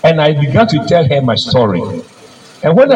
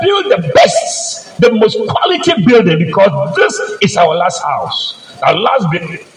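slow raised command. Retold or imitated. Employer instructing the builder before traveling, slow and raised. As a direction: insist slowly, pitched up. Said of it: "The man told him that".

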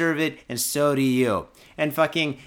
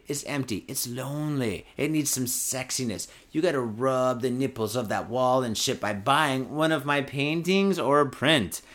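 mock seductive. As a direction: purr it like a hammed-up seduction. Seductive pitch for his paintings.

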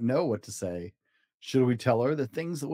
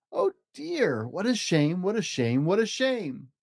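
sing-song disappointed lament; mock sorrowful cat; 2 semitones higher than usual. Cat disappointed they disliked his game, mildly sad. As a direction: sigh it like a sulking showman. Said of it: "said the cat".

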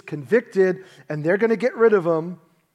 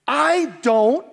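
swearing denial; 6 semitones higher, 4 dB louder, much slower than usual. Acted. He swore to them.

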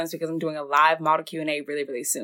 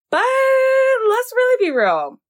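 drawn-out mock drama; 5 dB louder, much slower than usual. Mock dramatic emphasis, long drawn.

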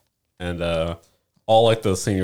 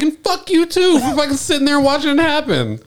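unload on the one who sat there laughing; retold furious yell. Yelling at the guy who watched it happen, furious.

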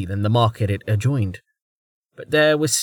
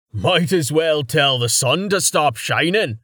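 a touch louder, lightly voiced teasing friend; said loudly; 4 semitones higher than usual. A narrator's reading. Carten teasing his worried friend in line, a little loud. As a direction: tease him out loud, half-laughing. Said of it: "Carten said loudly".

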